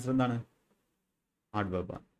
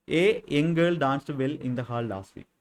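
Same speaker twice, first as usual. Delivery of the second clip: slow dictation; much slower than usual. Shown as a demonstration. Teacher dictating a homework sentence to students, slow and clear. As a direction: read out very slowly, word by word.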